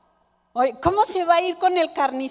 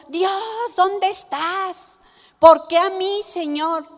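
despairing plea; 4 semitones higher than usual. Acted. Acted despairing cry to God.

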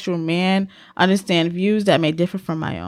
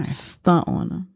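whisper; 2 semitones lower, slower than usual. Acted.

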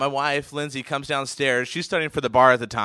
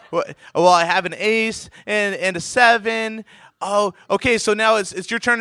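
higher-pitched nervous mom voice; 5 semitones higher, 3 dB louder than usual. Retold or imitated. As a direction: imitate a flustered mom, mildly panicky. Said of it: "my mom's just in a panic".

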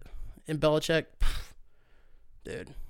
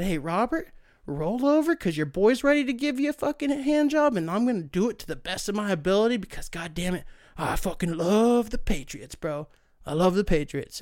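hammed-up Goodell, pitch jumping up on roll over; playful mock impression of a commissioner; 2 semitones higher than usual. Voicing Goodell offering massage.

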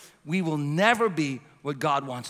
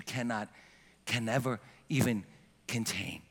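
tender pastoral encouragement; 3 semitones lower, 4 dB quieter than usual. Real, not acted. Pastor softly encourages single moms, tender. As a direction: speak gently to a struggling mother.

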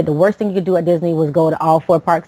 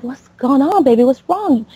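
concerned mother; 6 semitones higher than usual. Retold or imitated. Mother checks on crying son.

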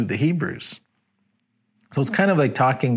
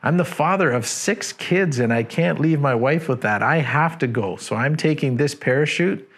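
raised, urgent pilot's call to the passengers, higher; mock shout; 4 semitones higher than usual. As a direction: pilot half-shouting goodbye as he bails out. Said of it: "shouts out to everybody on board".

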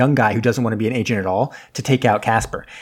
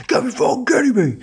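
pissed-off captain; 13 semitones higher than usual. Retold or imitated. Captain hears the terrorist escaped, in an imitated high exasperated outburst. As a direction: squeal it out like an exasperated captain hearing bad news. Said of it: "so he's, like, all pissed".

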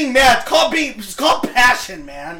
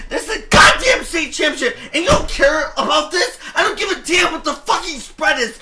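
shouting, laughing in disbelief; heated podcast shout; angry shout; 5 semitones higher than usual. Real, not acted. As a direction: yell it at your co-host. Heated sports podcast argument rant.

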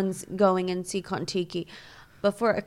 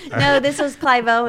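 excited; 5 semitones higher, 8 dB louder than usual. Real, not acted. Excited reaction to celebrity.

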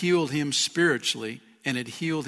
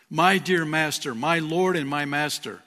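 "My dear master" called out louder; fervent cry; 2 semitones higher, 4 dB louder than usual. Retold or imitated. Bart calling out to Jesus, fervent and louder. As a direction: lift it as an eager plea. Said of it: "Bart says".

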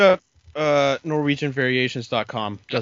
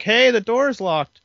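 raised, slow call, higher and louder; imitated yell; 9 semitones higher, 5 dB louder, slower than usual. Podcaster retelling someone yelling in the other room, mock yell. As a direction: mimic someone calling out from another room. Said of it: "you hear somebody yelling in the other room".

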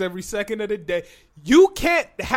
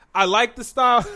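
laughing; 3 semitones higher, 4 dB louder than usual. Real, not acted. Laughing while reviewing the tape.

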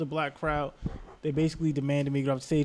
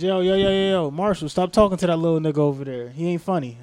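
imitating a comic calling out; 3 semitones higher, 6 dB louder than usual. Wheelchair comic calling across room.

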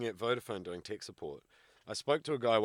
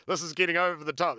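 exasperated referee; 8 semitones higher, 9 dB louder than usual. Retold or imitated. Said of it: "he was like".

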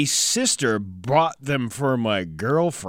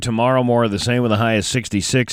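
weather read; 2 semitones lower, 4 dB louder than usual. Acted. Morning weather forecast read.

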